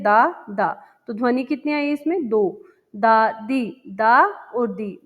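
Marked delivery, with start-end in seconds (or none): 0.0-0.8 दा, दा said as two separate beats; syllables split. Shown as a demonstration. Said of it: "दादा में दो ध्वनियाँ". 3.0-5.0 दा, दा said as two separate beats; syllables split. Shown as a demonstration. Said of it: "दो ध्वनियाँ इसमें हैं".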